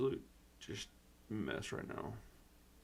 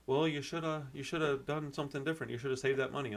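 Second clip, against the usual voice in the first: mock tax collector; 3 semitones higher than usual. Mocking what the tax people say.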